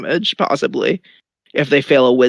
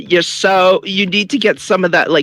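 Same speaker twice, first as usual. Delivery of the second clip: yelling taunt; 4 semitones higher than usual. Acted. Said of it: "And then I yell into the cave".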